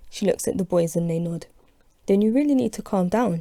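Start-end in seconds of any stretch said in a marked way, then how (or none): 2.1-3.4 firm. Acted. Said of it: "she says firmly to Tyrone".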